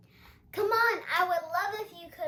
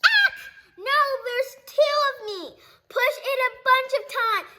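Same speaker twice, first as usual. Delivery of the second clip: higher, laughing and fast; excited laughing; 7 semitones higher, 4 dB louder, faster than usual. Acted. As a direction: giggle through the words with glee. Larry excited by doubling.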